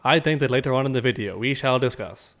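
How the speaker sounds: text-to-speech robot voice, even and stiff. Pretend. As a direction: read it like a speech synthesizer. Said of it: "is that the text-to-speech robot voice".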